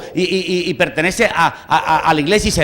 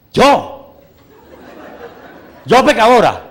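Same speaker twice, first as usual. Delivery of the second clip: higher, louder shocked retort; indignant surprise; 5 semitones higher, 6 dB louder, slower than usual. Retold or imitated. Grandmother shocked at grandson's accusation, indignant. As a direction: bristle at being called a sinner. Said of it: "grandmother replies".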